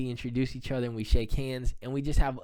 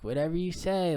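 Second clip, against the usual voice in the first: dismissive; 6 semitones higher than usual. Retold or imitated. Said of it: "dismissing it like".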